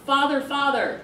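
loud, high cry, as if calling after someone. Retold or imitated. Elisha calls after his departing master, crying out. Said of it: "and he cries out".

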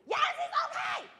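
put-on old auntie shouting her agreement to a visit. Old lady answering, hard of hearing.

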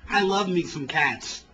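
slow drawn-out mock cat lady; hint of a crazy cat lady; the caller who hung up, slow and mocking. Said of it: "she said".

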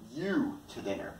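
"you" set apart after a pause; pause, then land on "you"; stress on YOU. Shown as a demonstration. Teacher explaining who gets taken, stress on "you". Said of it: "The focus is on the".

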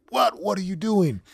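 high, loud disbelieving what; shocked disbelief. Retold or imitated. To a friend who made it in a month, stunned and incredulous. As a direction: blurt it out, floored by the news.

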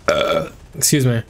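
talking through hiccups; hiccuping. Real, not acted. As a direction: hiccup between words. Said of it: "Hiccups are back".

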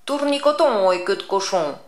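a witch's familiar charm; witch incantation. Acted.

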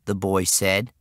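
put-on high, loud, drawn-out kid whine; put-upon kid, loud and high; exasperated boy. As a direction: complain slowly in a boy's high voice. Exasperated boy speaks to police.

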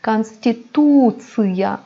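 Konstitusiya said slowly with -tsıya at the end; slow Russian model of Konstitusiya; hard ı after ts. Shown as a demonstration. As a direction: draw out the stressed tu, then hard tsı-ya in Konstitusiya. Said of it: "ıya okuyoruz".

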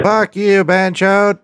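loud, high insult shouted down the phone; yelling. Real, not acted. Cursing at scam call center.

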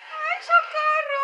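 high, loud and slow cry for help; panicked call for help. Real, not acted. Player chased by a monster, calling for help in panic. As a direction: drag out the plea in real fright.

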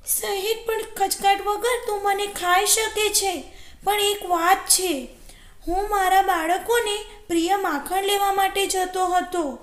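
high-pitched imploring jackal voice; small, high storybook beggar; pleading jackal. Acted. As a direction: plead for a little time in a high character voice. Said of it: "શિયાળે આજીજીપૂર્વક કહ્યું".

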